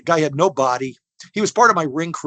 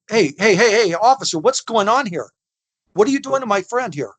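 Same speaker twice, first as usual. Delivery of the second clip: alarmed protest; 5 semitones higher than usual. Retold or imitated. Confronting the cop in the prank.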